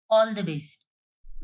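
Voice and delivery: slow mocking "All the best"; sarcastic drawn-out wish. Mother mockingly wishing her daughter luck, slow and sarcastic. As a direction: stretch it out with mock cheer.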